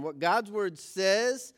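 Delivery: slow, measured phrase for others to join; deliberate group recitation with pauses; leading a recitation. Shown as a demonstration. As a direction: lead the group through it phrase by phrase, slowly. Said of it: "Let's do it one more time".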